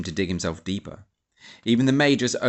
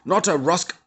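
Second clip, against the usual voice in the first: higher, louder looming threat; menacing; 7 semitones higher, 6 dB louder than usual. A narrator's reading. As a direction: loom over her with the question. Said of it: "leaned over Ruth menacingly".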